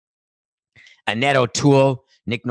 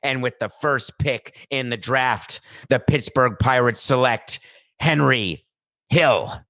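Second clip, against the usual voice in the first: draft announcer; slower than usual. Pretend. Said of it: "You wanna be the one to say".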